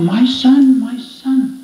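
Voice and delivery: mother's cry, pitched high; retold shout. Mother spotting her lost son from the roadside, high retold shout. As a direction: call out high like an astonished mother. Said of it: "she shouted out".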